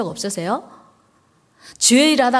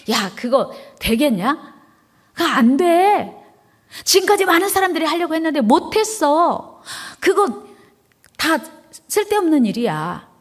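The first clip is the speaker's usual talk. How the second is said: mocking naysayer; 4 semitones higher than usual. Preacher voices mocking opponents.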